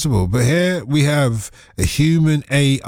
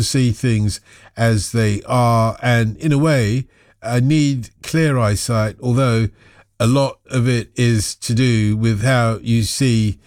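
slow, lower reading of a listener's text; reading a message aloud; 5 semitones lower, slower than usual. Acted. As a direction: read it out slowly, lower.

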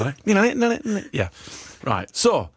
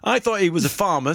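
ordinary talk

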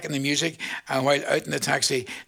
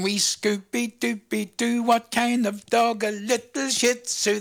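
higher, slow cooing as if to a pet; doggy talk; 4 semitones higher, slower than usual. Acted. DJ cooing to listeners about their little dog, slow and higher. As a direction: coo it out like talking to a wee pup.

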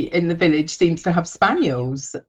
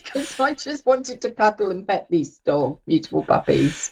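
puppy voice; 2 semitones higher than usual. Real, not acted. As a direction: coo as if to a puppy. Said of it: "Did you put your puppy voice on?".

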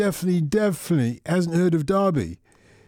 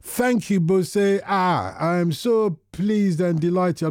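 Nigerian accent; slower than usual. Real, not acted. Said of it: "I'm not gonna put on my Nigerian accent, but sometimes I cannot help it".

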